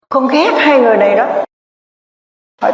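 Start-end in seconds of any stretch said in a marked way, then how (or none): 0.1-1.4 a hint of a child. Possessed girl voices aborted child.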